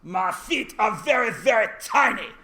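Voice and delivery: badly faked French accent, playful. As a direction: put on a hammy French accent. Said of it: "I can't do a French accent".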